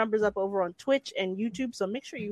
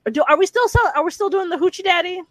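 high, loud eager question; excited; 8 semitones higher, 6 dB louder, faster than usual. Real, not acted. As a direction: blurt it out, excited.

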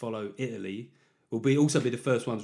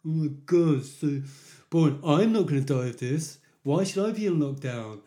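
loud, higher-pitched mock teenage whinge; 5 semitones higher, 5 dB louder than usual.

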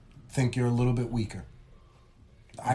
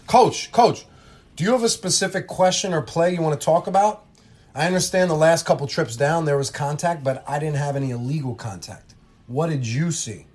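a higher, louder call to get the coach's attention; firm ref reply; 4 semitones higher, 5 dB louder than usual. Acted. Ref cutting off the coach, firm and raised. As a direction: take control as the official.

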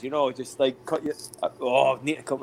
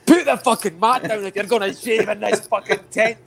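put-on higher, louder Scottish accent scolding a tentmate; mock Scottish rant; 4 semitones higher, 5 dB louder than usual. Tentmate nagging his friend about shaving, mock Scottish rant. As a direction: rant in a hammed-up Scottish accent, half laughing.

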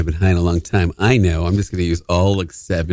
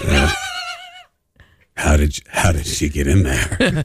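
sexy radio voice; 2 semitones lower than usual. Acted. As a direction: drawl it like a late-night DJ. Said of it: "This is our sexy radio voices".

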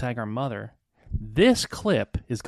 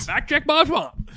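laughing; 8 dB louder, slower than usual. Real, not acted. Mocking repeat amid laughter.

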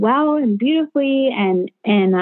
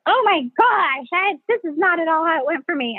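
imitated astonished commenters; 8 semitones higher than usual. Online commenters reacting to her birth video, imitated astonishment. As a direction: stretch the opening and pitch it high, mimicking disbelief. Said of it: "People are like".

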